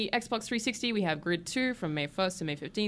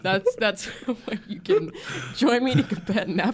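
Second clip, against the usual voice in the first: laughing, slow and louder; 4 semitones higher, 5 dB louder, slower than usual. Real, not acted. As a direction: giggle through a joke plug. Joking with laughter.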